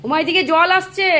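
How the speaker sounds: sudden high, loud cry of surprise; startled exclamation. Real, not acted. Startled, spotting water coming her way. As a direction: blurt it out, caught off guard by the water.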